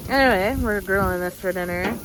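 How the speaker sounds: numb mouth, slightly slurred; numb from the dentist. Real, not acted. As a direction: talk through a numb mouth after fillings. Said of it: "My mouth is so numb right now".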